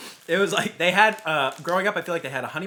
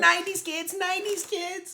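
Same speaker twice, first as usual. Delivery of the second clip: commercial announcer. Pretend. Mock commercial callout.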